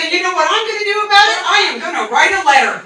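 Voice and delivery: fast, indignant mock threat; mock violent threat. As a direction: rattle off a harmless threat as if dangerous. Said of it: "And then I got violent".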